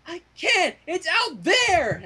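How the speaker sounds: high-pitched mock bellow, slowing on the second line; a lightly played panicked yell back. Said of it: "Applejack bellowed back".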